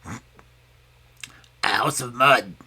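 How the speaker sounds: very slow, drawn-out piglet answer; Brownie the pig. A narrator's reading. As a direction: savour the word mud like a treat. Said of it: "replied Brownie".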